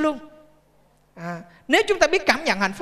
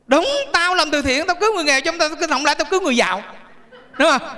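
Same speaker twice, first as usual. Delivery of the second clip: scolding mother; 3 semitones higher, faster than usual. Retold or imitated. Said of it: "Bà chửi là con gái vậy".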